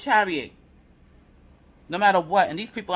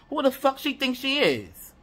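indignant outburst pitched higher; getting mad; 7 semitones higher than usual. Real, not acted. Tarot reader venting at the karmic rival, higher and indignant. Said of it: "I'm getting mad".

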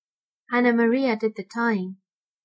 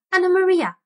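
much higher, louder squeaked name; shrill squeaking rat call; 8 semitones higher, 6 dB louder, faster than usual. Acted. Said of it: "squeaked the rat".

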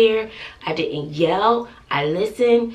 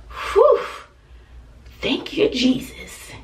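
relieved praise; 5 semitones higher, slower than usual. Retold or imitated. Relief at getting car back.

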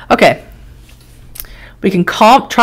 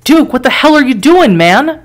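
calling out; 6 semitones higher than usual. Acted. Bystander calls out to Duke.

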